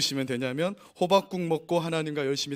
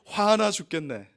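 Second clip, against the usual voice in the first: mock anger; 3 semitones higher, 4 dB louder, slower than usual. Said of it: "분노가 일어납니다".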